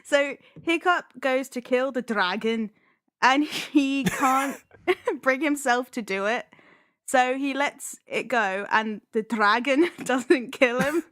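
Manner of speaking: put-on giggly synopsis with Scottish-accented DRAGON; lightly faked Scottish accent, breaking into laughs; attempted Scottish accent. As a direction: tell it with a half-hearted Scottish twang. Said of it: "we'll say dragons in a Scottish accent".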